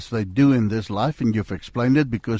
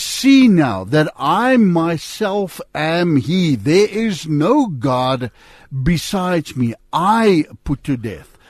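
slow, weighty reading of scripture, each phrase laid down; solemn scripture reading; 2 semitones higher, much slower than usual. Acted. Host reading Deuteronomy off the screen, slow and solemn. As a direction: read God's words slowly and with gravity. Reads scripture slowly aloud.

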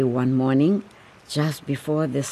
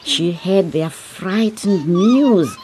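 louder, urgent storytelling; tense narration; 5 semitones higher, 4 dB louder than usual. A narrator's reading. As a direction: build the danger. Narration builds to danger.

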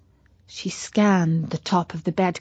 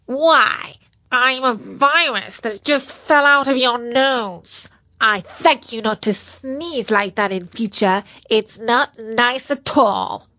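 cute germ voice. Acted. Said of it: "said the bug".

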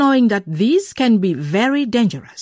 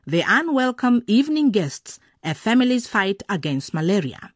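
bright presenter intro; radio presenter. A narrator's reading. Presenter welcoming listeners to the drama, host voice.

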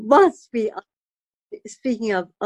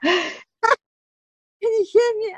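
much higher, slow gentle question; mother checking if daughter can hear; mother's voice; 12 semitones higher, much slower than usual. Retold or imitated. Mother asks deaf daughter.

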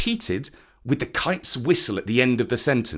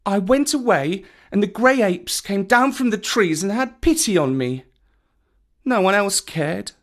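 put-on high, self-pitying little boy; plaintive high child voice; snuffling Mowgli; 9 semitones higher than usual. A narrator's reading. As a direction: plead like a wronged, hurt child. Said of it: "He snuffed a little".

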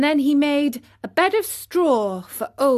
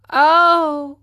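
faint voice; 7 semitones higher, 7 dB louder, much slower than usual. Acted. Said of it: "said Pinocchio in a faint voice".

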